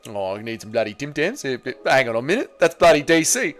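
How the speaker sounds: lightly voiced Volk spotting the snack; Volk impression. Streamer imitating Volk mistaking DC for Tim Tams, lightly voiced. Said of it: "Impression of Derek Lewis and D C ... Volk".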